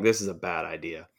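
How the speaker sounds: hushed, low whisper; whispered thought. Retold or imitated. Walking into the merchandise booth, whispering a private thought. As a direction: whisper it as if to yourself.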